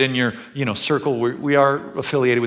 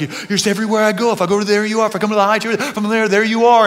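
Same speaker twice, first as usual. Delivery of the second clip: joyful psalm quote; 8 semitones higher, 6 dB louder, much faster than usual. Retold or imitated. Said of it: "really high highs".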